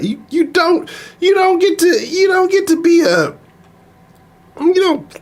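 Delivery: high-pitched outraged squeal; real fury cracking up high; livid. Real, not acted. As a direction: voice shooting up in disbelief. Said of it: "I am livid right now".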